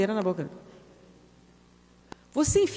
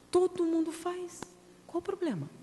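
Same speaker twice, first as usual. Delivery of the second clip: mocking excuse; 8 semitones higher, 6 dB quieter than usual.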